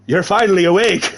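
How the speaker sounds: put-on French accent slipping into Irish; attempted French accent. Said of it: "a French woman's voice".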